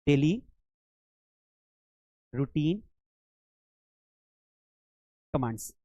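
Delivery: "Daily ... routine ... commands" with a long pause after each word. Shown as a demonstration. Teacher dictates the heading word by word. ("Daily routine commands" एक-एक शब्द रुक कर बोलें)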